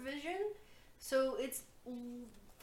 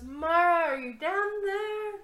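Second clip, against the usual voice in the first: high, loud call into a pit; 7 semitones higher, 8 dB louder than usual. Acted. Ez leans over the pit for Mara, calling loudly. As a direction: holler it down to someone far below. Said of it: "leans over and goes".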